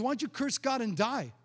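mocking, needling imitation of Satan; retold taunting. Preacher voicing Satan jeering at the man of God, taunting. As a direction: taunt him with mock questions. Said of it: "Just taunting me".

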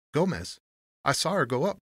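high-pitched voice for the porter; loose porter. A narrator's reading. Porter explains his drink to Tony, loosely. Porter answers about Miss Cressy.

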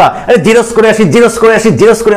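জেরক্স said as "jiros", without the k; imitating local pronunciation. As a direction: quote youngsters casually dropping the k in জেরক্স. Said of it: "অনেক ছেলে মেয়ে এখন দেখো".

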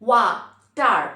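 ওয়া, pause, টার, two firm beats; split in two syllables. Shown as a demonstration. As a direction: punch out ওয়া and টার separately. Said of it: "উচ্চারণ করতে দেখো". (ওয়া টার, দুইবারে উচ্চারণ)

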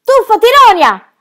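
high, loud shout to dive; urgent shouted command; yelled warning. Acted. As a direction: yell at her to get under the water. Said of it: "urlò Birk".

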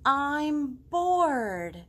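loud whiny "I'm bored"; whiny kid. Retold or imitated. Teacher mimicking her kids, loud and whiny. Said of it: "my kids will say".

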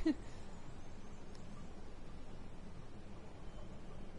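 long tired yawn. Real, not acted. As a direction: let a big yawn out. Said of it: "Excuse me yawning".

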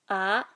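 ah dipping then rising; Hmong curved tone. Shown as a demonstration. Teacher demonstrating tone V, dipping ah. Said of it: "up and down curved tone".

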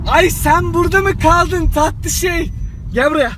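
high, loud cooing to a sweetie; cooing call. Acted. Calling over a sweet little thing, high cooing. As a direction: gush it out, high and drawn-out.

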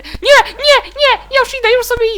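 high loud scared shrieks; panicked screams. Real, not acted. Gamer fleeing an enemy, shrieking in panic.

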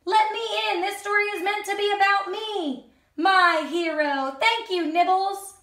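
put-on high, bright girl's voice; grateful Red Riding Hood. Red Riding Hood thanking Nibbles, high. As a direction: push in, then thank your hero.

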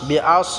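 আস with a thick, emphatic s; heavy Sad. Shown as a demonstration. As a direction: make the s in আস full and heavy. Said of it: "সোয়ারটাকে আমরা মোটা করে উচ্চারণ করব". (আস-এর সোয়াদ মোটা করে)

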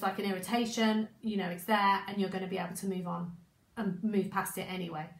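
hoarse, croaky throat; a rough, croaky voice. Real, not acted. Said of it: "my croaky voice".

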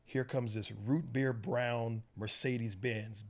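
usual speaking voice

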